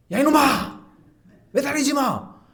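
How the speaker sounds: put-on loud, high yell at a child; scolding shout. Father shouting at his climbing toddler, scolding. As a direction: bark it at the kid to stop. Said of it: "그러면서 이렇게 야단쳐야 될 거 아니에요".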